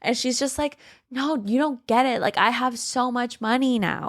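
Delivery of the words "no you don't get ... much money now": higher-pitched, drawn-out mock gloating; gloating glee. Wendy bragging to her lover about money, gloating. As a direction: play up the giddy boasting. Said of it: "she's laughing".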